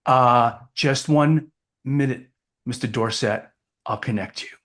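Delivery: lightly acted clerk, hesitant and halting; hesitate, then put the caller through, lightly acted; front desk clerk. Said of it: "the person at the front desk".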